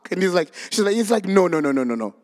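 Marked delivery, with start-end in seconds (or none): 1.3-2.1 hasty denial. Acted. Peter denies knowing Jesus.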